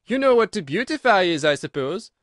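loud, high creature challenge; exclaiming. A narrator's reading. Gryphon quizzing Alice, loudly exclaiming. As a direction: demand it incredulously. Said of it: "it exclaimed".

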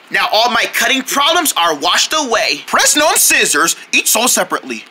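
upbeat commercial pitch; ad read. Acted. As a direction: sell it like a TV ad. Mock scissors ad read.

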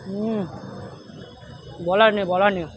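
talking between bites; chewing. Real, not acted. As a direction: mouth full of meat. Seen 0: Bites skewer meat at -1.0, lips closed chewing through labelled words.

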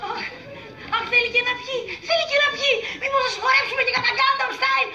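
rising indignant cry; exasperated outburst. Acted. Outraged sister at cousin.

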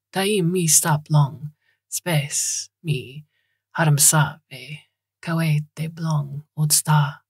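slow, measured verse; poem recitation. A narrator's reading. Bloom recalls Moocher's poem for Dowd, slow recitation. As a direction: recite it slowly, phrase by phrase.

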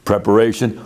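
preparation spoken as a conductor's cue; downbeat cue. Shown as a demonstration. Choir director cueing the choir before amen. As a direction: call preparation to set up the beat. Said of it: "we will go".

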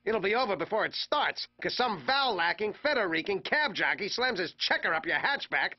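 rapid-fire ranting list; escalating comedy rant. Acted. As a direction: pile on the grievances.

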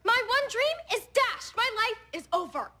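desperate. Acted. Student fearing Harvard is lost, desperate. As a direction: lament it as a catastrophe. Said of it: "You sound desperate".

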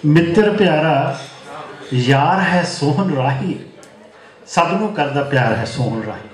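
measured mushaira verse reading; poem recitation. Acted. Poet honouring his friend Sohan Rahi, measured recitation. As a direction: recite in phrases, pausing between them.

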